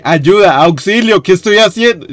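building to loud, high cries for help; mounting stress. Real, not acted. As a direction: escalate into stressed pleading. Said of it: "me estresa, me estresa mucho". (estrés creciente hasta gritar, agudo)

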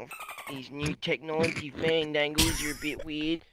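a lightly voiced boozy Aussie bloke, muttering; slurry old mate talking to himself, half under his breath; mumbling drunk Aussie bloke fumbling for a light; bloke character.

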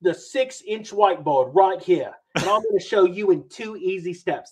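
hammed-up Canadian host opening his video; Market Mania Canada impression. Pretending to be Market Mania Canada, mock Canadian accent. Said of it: "I'm gonna pretend I'm, I'm Market, uh, Mania Canada".

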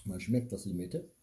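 talking through a sour pucker; mouth puckered from sour. Real, not acted. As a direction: lips drawn tight from sour juice. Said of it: "zieht alles zusammen".

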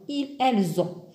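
"elles ont" linked with z: ellz-ont; liaison. Shown as a demonstration. Teacher modelling "elles ont" with the liaison. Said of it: "On fait aussi la liaison".

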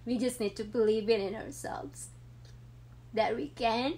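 fighting real tears to finish the thought; tearing up. Real, not acted. Mother encouraging women viewers, voice full of tears. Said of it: "Sorry, guys, I was just so emotional".

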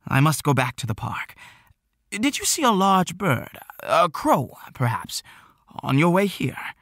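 a hint of a flustered old man; lightly voiced anxious elder; worried old shopkeeper. Worried Mister Wheeler.

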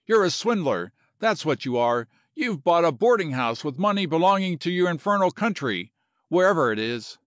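mildly angry accusation; sputtering outrage. Acted. Kelly accuses the general of swindling him, mildly sputtering. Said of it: "he sputtered".

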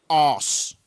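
"os", mimicking a British "arse" without the r; British-style arse. Player mimics how British guys say arse, mock British "os". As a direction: say "os" with a rounded vowel and no r. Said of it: "Whenever a British guy says arse, it just sounds like".

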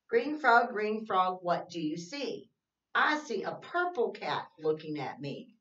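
sing-song read-aloud, slow and even; reading to children. Acted. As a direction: read the rhyme to little kids, slowly. Reads picture book.

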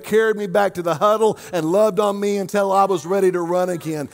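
driving sermon that builds to a held-out climax; impassioned preaching. Real, not acted. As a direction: preach it with mounting force. Preaches at rising force.

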